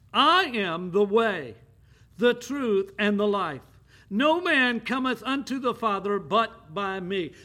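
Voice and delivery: slow, loud, each word weighted; emphatic proclamation. Acted. Preacher declaring Jesus' words to the church, slow and emphatic.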